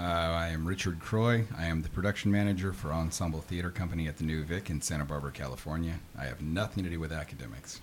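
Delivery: like a late-night radio host; warm announcer. Acted. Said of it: "Listen to that butter smooth radio voice".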